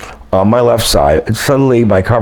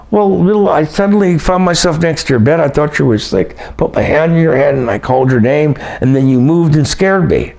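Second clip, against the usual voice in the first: imitating a rattled woman, voice pitched higher; lightly voiced, higher and urgent, as if still spooked; retelling his shaken friend; 6 semitones higher than usual. Telling Barry about her strange visit, higher mock-urgent voice. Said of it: "she goes".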